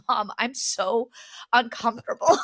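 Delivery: mock whining child, ending in a mild yelp; whiny kid. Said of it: "I was like".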